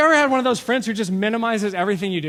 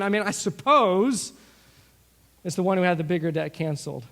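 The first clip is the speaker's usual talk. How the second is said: hesitant, puzzled. Shown as a demonstration. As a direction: stall as if reluctant to answer. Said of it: "if I have to answer this question".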